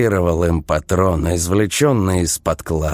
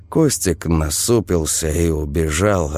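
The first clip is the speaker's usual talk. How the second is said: usual speaking voice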